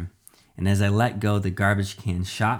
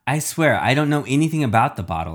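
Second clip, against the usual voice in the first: higher-pitched, pleading denial; urgent protest; 4 semitones higher, 4 dB louder, faster than usual. Acted. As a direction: swear it quickly to your captor. Child protests to villain.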